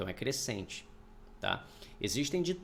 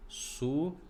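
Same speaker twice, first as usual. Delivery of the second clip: syllable by syllable; 3 semitones higher than usual. Shown as a demonstration. Teacher showing where suado splits, syllable by syllable. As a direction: separate syllables with long pauses between. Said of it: "eles ficam em sílabas sela".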